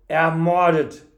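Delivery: one word cried out loudly; shocked cry. A narrator's reading. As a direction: exclaim it in appalled disbelief. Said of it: "rief der Wirt".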